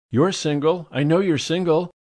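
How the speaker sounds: high, gushy society lady; effusive high society lady; gushing socialite. A narrator's reading. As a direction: swoon over the marvelous man.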